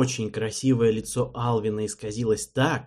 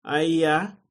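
anxious question; 6 semitones higher, 5 dB louder than usual. A narrator's reading.

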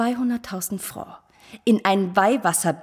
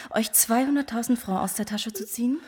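whisper; 6 dB quieter than usual. Acted. Scornful aside about pious women.

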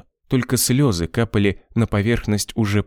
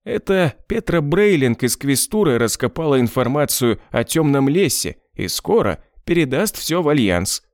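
high voiced boss; 5 semitones higher than usual.

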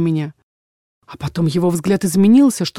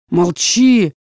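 stern command; 4 dB louder than usual. Acted. Father silences daughter.

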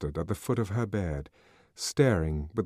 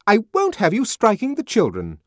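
high, loud, indignant; stern scolding nurse; 13 semitones higher, 10 dB louder than usual. A narrator's reading. Head nurse forbidding the savage to hit children, loud and stern. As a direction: lay down the law.

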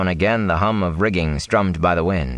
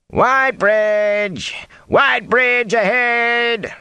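"Whitebridge" sung out long and much higher, slow and loud; lookout's call; 3 dB louder, much slower than usual. A narrator's reading. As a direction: call "Whitebridge ahead" across the deck like a lookout in the bow. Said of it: "the lookout in the bow sang out".

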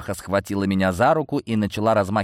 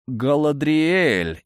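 feigned joyful surprise; 6 semitones higher, much slower than usual. Acted. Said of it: "изобразив радость и удивление".

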